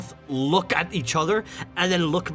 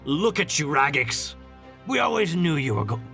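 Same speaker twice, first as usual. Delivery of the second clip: put-on pirate accent; 3 semitones lower than usual. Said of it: "A lot of goblins sound like pirates".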